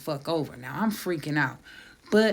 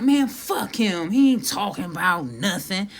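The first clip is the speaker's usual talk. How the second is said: irritated dismissal; 5 dB louder than usual. Retold or imitated. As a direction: imitate a fed-up friend brushing it off. Acted retort of fed-up friend.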